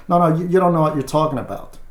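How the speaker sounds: fast, dismissive interruption; impatient cut-off. Retold or imitated. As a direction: brush him off in a rush. Wife cuts husband off.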